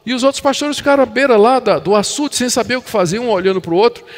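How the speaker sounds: ordinary talk, nothing marked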